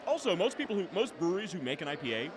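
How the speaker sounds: talking while chewing; words round a mouthful; mouth full. Real, not acted. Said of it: "sorry, I'm chewing".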